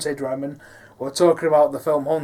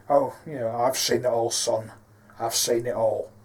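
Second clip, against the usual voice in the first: 3 semitones lower than usual. Shown as a demonstration. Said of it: "Like, quite elderly, quite beaten, quite bruised, raspy".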